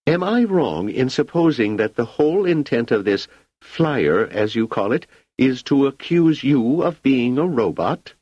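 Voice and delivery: high, agitated imperial voice; an emperor losing his composure; irate emperor. Acted.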